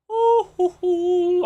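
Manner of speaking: high hooting whistle sounds; mock whistle. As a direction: hoot it like a whistle while peeing. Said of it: "I was whistling".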